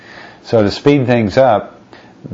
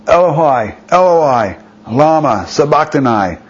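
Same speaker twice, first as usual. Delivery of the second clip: higher, anguished cry of Eloi Eloi; cried out; 5 semitones higher than usual. Acted. Preacher voicing Jesus on the cross, crying out high. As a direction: lift it into a pained cry. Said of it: "Jesus cried out in a loud voice".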